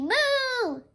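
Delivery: high, loud cow moo; storybook cow voice; cow's moo. Acted. Cow chasing the farmer.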